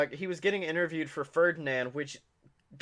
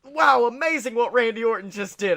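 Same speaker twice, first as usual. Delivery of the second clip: mock commentator; 5 semitones higher, 3 dB louder than usual. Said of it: "the commentators were like".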